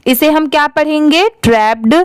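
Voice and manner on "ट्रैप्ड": "ट्रैप्ड" with a pd ending in one syllable; pronunciation demo. Shown as a demonstration. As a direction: sound the final d straight after p in "ट्रैप्ड". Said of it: "पैप्ड की sound आएगी". ("ट्रैप्ड" के अंत में प्ड की sound)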